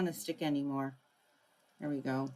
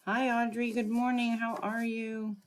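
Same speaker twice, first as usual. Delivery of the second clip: higher, brighter hello, the question slowed; friendly live-stream hello; cheery greeting; 5 semitones higher than usual. Real, not acted. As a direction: welcome a regular warmly. Greeting a viewer joining live.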